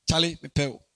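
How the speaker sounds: put-on casual slangy boys' call; lightly voiced street boy; imitating street guys.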